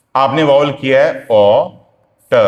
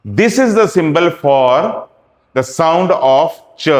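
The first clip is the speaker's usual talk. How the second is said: very slow, word by word; slow teaching voice; much slower than usual. Shown as a demonstration. Teacher dictating the symbol to students, slow. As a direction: spell it out for the class.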